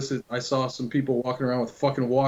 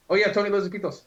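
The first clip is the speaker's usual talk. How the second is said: mock announcement; 6 semitones higher, faster than usual. Random prank over walkie-talkie.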